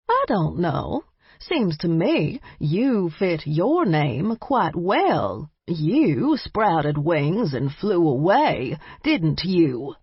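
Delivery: slow, knowing granny tease; teasing grandmother. Acted.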